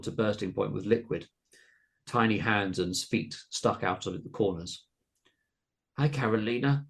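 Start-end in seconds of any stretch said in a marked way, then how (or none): 6.0-6.9 higher, gurgling creature greeting; gurgled. A narrator's reading. Boneless creature Tummy greeting Carolina, gurgled. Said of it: "he gurgled".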